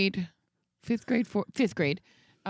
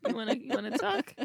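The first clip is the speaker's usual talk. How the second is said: put-on tough-guy Boston accent; cocky Southie tough guy; 2 semitones higher than usual.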